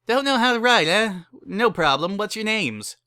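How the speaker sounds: high, loud, eager wedding-chapel host; cheery chapel keeper. Acted. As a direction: sell them a wedding with pushy cheer. Barry fills in the scroll.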